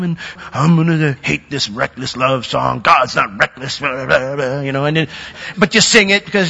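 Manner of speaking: mock a reluctant believer's grumbling; grumpy churchgoer. Pastor mocking grudging worshippers, mild grumpy voice. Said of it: "Don't do it with a grumpy face".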